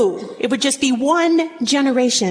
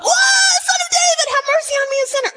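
desperate cry; faster than usual. Acted. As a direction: cry out for mercy across a crowd. Beggar crying out to Jesus.

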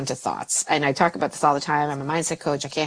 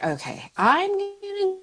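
self-calming; 2 semitones higher than usual. Shown as a demonstration. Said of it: "to be like".

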